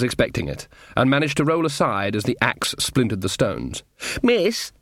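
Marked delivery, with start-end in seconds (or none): 4.2-4.7 weakly. A narrator's reading. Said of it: "said Sean weakly".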